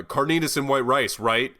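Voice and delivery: annoyed diner mimicking the server's loud order call; loud mock server. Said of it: "and loudly says".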